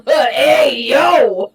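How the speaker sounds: loud call-out; shouting. Real, not acted. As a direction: yell it across the room. Shouting in game.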